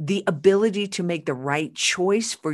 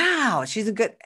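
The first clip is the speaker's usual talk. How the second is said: mock astonishment; 5 semitones higher than usual. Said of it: "We're like".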